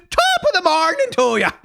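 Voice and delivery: high-pitched stage-Irish greeting; cartoon Irish accent. Shown as a demonstration. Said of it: "that's a cartoon Irish accent".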